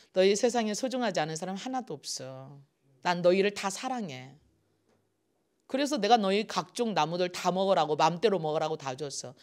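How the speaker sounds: soft, tender reassurance; God quietly assuring his love; loving God. Retold or imitated. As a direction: speak gently to beloved children. Voicing God's loving words.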